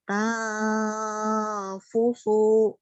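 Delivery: nose pinched, sound leaking out the mouth; pinching nose. Shown as a demonstration. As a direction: say it with the nose held shut. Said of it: "masih ada yang keluar dari mulut ketika hidung ditutup".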